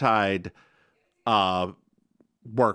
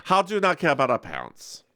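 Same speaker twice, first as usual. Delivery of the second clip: higher, urgent and accusing; upset pleading; 6 semitones higher than usual. Retold or imitated. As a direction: demand an answer from your brother, pitched way up. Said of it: "where Greta says".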